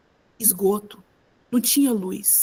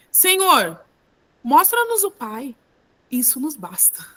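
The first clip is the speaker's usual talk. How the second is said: lightly voiced plea, high at first; earnest request, falling away; pleading disciple; 4 semitones higher, slower than usual. Philip's plea to Jesus acted out.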